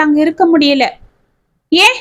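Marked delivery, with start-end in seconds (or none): 1.7-2.0 startled, pitch-rising "why?"; shocked question. A narrator's reading. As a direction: ask it in sudden shock. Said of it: "அதிர்ந்து பார்த்தாள் ராதிகா".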